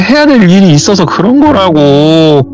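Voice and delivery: high-pitched mock-tearful pleading; imitated crying. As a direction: wail excuses like a crying younger sister. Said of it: "하면서 막 울더래요".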